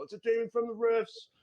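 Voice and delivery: very high mock-panicked cry; hammed-up high-pitched alarm; yelling townsperson. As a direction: shriek the warning without real volume. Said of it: "you hear another one yell".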